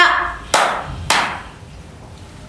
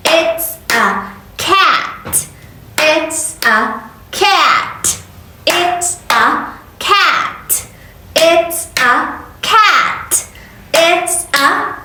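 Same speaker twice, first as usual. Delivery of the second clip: slow modeling; 3 semitones higher, much slower than usual. Shown as a demonstration. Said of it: "teacher models slow for repeating".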